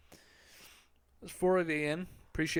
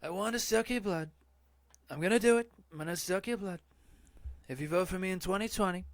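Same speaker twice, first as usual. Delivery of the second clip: higher, loud, hammed-up vampire threat; mock vampire; 6 semitones higher, 4 dB louder, faster than usual. Promising chat votes as a hammed-up vampire. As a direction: play a cartoon campaigning vampire.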